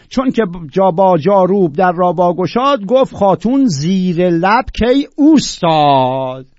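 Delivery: loud, drawn-out verse declamation; measured, emphatic classical Persian recital; poetry recitation. Acted. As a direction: declaim the couplet slowly, stretching the key words.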